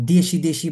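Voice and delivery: "দেশি, দেশি" with sh in place of ch; wrong pronunciation. Shown as a demonstration. Teacher warning learners off দেশি, wrong pronunciation. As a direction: repeat "দেশি" as the mistaken sh version. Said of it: "বললে কি হবে না আমাদের".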